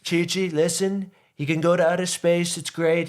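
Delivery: high, slurry tipsy king; drunk Ox King. Retold or imitated. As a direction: babble like a happy drunk grandpa. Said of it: "I don't know why I'm making him, he's, like, drunk".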